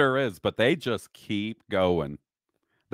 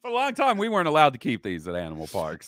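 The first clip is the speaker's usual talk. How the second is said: imitating Australian accent; 2 semitones higher, faster than usual. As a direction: parrot the keeper in an Aussie accent. Host parrots keeper's line.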